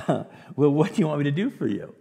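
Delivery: amused, lightly acted question; bemused. Jesus answering a cheeky request, bemused. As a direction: ask it with a bemused little lilt. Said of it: "Was he looking bemused?".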